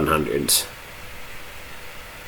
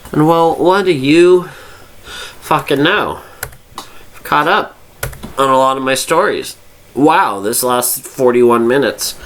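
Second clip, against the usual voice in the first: tipsy, loose rambling speech; 5 semitones higher than usual. Real, not acted. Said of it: "and I'm drunk, as you can tell".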